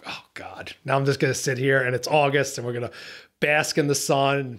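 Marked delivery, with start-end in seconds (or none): 0.1-0.7 very low, whispered groan of resignation; dismayed sigh. Retold or imitated. Angler muttering to himself on reaching a dead spot, dismayed. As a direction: let it sink out under your breath. Retold sinking dismay at late start.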